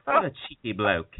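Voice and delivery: lightly mocked British accent; dismissive English put-down, lightly imitated; a rock singer. Repeating the rock star's brush-off, mock English accent. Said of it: "too much rock-singer accent there".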